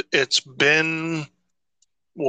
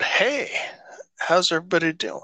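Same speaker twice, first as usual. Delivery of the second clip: high bright hey then a fast whispered rush; put-on greeting voice; 6 semitones higher, faster than usual. Host mimicking his own video greeting, high quick whisper. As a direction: toss off a quick airy greeting. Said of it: "doing it in a voice".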